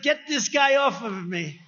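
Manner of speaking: slow, mocking Obama voice; lightly voiced Obama, drawn out. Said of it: "Obama said".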